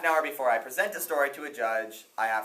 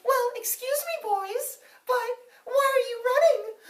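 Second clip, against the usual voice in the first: curious weaver; 6 dB louder than usual. Acted. Weaver greets the runners.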